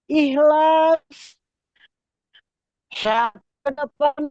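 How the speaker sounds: choppy breaking-up call audio; space radio static. Real, not acted. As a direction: voice cutting in and out. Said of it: "Suaranya putus-putus".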